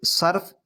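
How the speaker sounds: slow, careful صرف as "sarf", one syllable; pronounced sarf. Shown as a demonstration. Teacher contrasting look-alike words, slowly pronouncing sarf. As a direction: stretch صرف with an a, no vowel before f. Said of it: "پڑھنے میں بظاہر ایک جیسا لگ رہا ہے".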